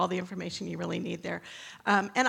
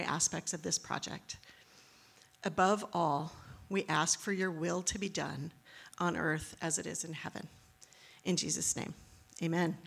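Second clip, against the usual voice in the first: praying. Acted. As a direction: lead the congregation in prayer. Closing prayer for the church.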